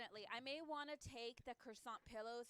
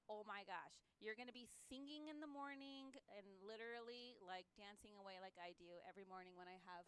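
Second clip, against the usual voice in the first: food-commercial pitch. Real, not acted. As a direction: sell it like a commercial, savouring it. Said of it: "That sounded like a commercial there".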